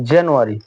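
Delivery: জানুয়ারি modelled as "jen-yoo-ary"; teacher demo of জানুয়ারি; British pronunciation. Shown as a demonstration. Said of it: "এর উচ্চারণটা হচ্ছে". (শিক্ষকের মতো জানুয়ারি উচ্চারণ)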